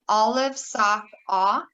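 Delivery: "Olive, sock" said deliberately, then "awe" alone; vowel drill. Shown as a demonstration. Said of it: "feel how your jaw just went".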